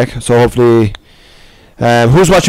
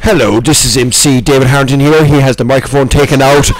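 MC voice. Pretend. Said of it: "like I'm in M C now".

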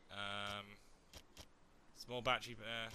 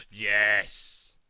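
excited yes; 3 semitones lower, 10 dB louder than usual. Real, not acted. Loot box opens.

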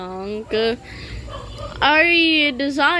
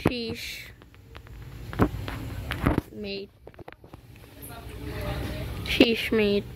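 whispered British bit; 9 dB quieter, slower than usual. Acted. Look at me, I'm British.

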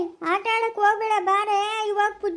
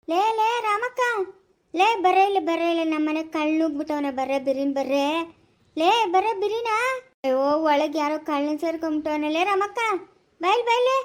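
calling out for help. Acted. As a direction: shout for help across the street. Granny calling neighbours about thief.

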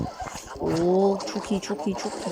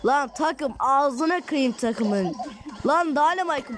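high, frustrated cursing at useless teammates; exasperated yelling at team; 5 semitones higher, slower than usual. Real, not acted. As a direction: vent at the team in a pitched-up rant. Team fails, player curses them.

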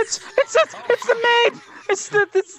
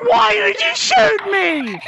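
indignant yell; slower than usual. Real, not acted. Player demanding why a teammate shot him, slow indignant yell. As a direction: drag out the outrage at the shooter.

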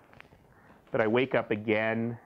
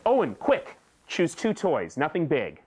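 urgent mother; 3 semitones higher than usual. Acted. Mother voiced urging child.

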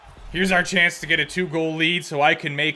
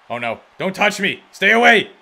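panicked shout; 4 semitones higher, 5 dB louder than usual. Real, not acted. Panicked goalie in game.

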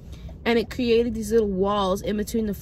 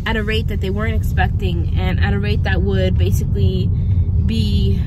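talking while bouncing over bricks; on a bumpy road; 4 dB louder than usual. Real, not acted. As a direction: voice jolted by a bumpy ride. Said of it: "This road is really bumpy".

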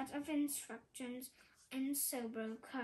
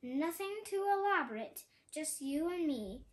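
growled threat. Acted. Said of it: "and growled".

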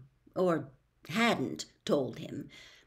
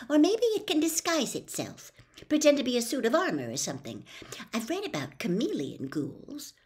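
Hermione; 5 semitones higher than usual. Acted. Hermione voiced theorising.

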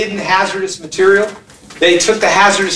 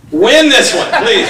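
mock pleading; 2 semitones higher than usual. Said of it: "Sorry, I had to do that".

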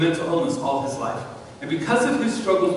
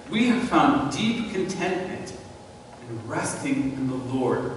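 reading aloud; 2 semitones lower, 4 dB quieter than usual. Shown as a demonstration. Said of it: "I love the phrase".

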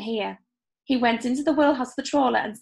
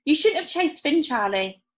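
reproachful; 4 semitones higher than usual. Acted. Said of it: "said Dougie reproachfully".

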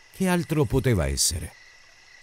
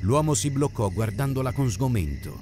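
ordinary delivery

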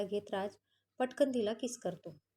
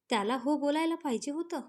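higher and louder, throwing her words back with "हो" stressed; incredulous repeat; 4 semitones higher, 4 dB louder than usual. Acted. Husband echoing wife's remark, higher, louder, disbelieving. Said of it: "काय म्हणलीस?".

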